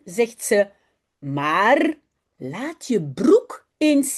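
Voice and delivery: slow, careful reading aloud for learners; story reading. A narrator's reading. Teacher reading a Dutch story aloud to her students. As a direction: read each sentence slowly and clearly.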